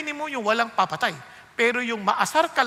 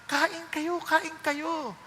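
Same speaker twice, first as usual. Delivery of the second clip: sincere invitation; 2 semitones higher, 6 dB quieter, much slower than usual. Retold or imitated. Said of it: "Nag-iba na yung tono".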